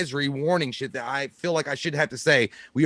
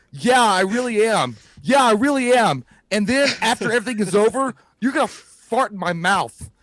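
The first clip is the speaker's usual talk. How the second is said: put-on insistent kid; 5 semitones higher than usual.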